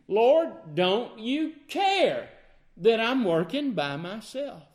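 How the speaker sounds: slow, reproachful complaint, leaning on care; a sharp, put-out scolding of the Lord. Acted. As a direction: scold him for leaving her alone. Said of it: "Can you hear the scolding?".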